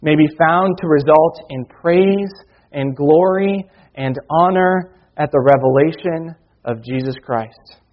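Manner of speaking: measured, earnest Bible reading; scripture reading. Acted. Preacher reading Peter to his church, earnest reading voice. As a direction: read the verses aloud to the congregation. Reads scripture passage to congregation.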